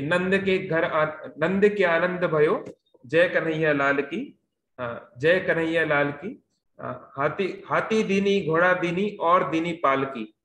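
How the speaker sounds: slow, measured recital of devotional lines; spoken hymn verse at an unhurried pace; verse recitation. Acted. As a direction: recite the song lines slowly, drawing out the words. Recites lines of a well-known devotional song.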